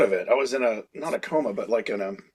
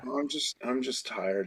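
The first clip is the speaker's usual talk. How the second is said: weak sick voice; 3 semitones lower, 12 dB quieter, slower than usual. Retold or imitated. Feeble sick self told to Phil.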